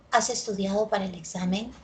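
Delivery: "¿Has estudiado para el examen?" with the pitch rising at the end; rising question. Shown as a demonstration. Teacher showing students the rising yes-no question tune. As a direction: ask it with the voice going up on "examen". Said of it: "La única que tiene entonación ascendente".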